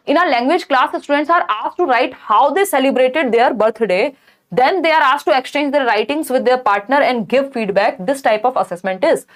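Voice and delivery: slow, deliberate question read-out. Acted. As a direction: read each word out carefully for the class. Reads exam question aloud slowly.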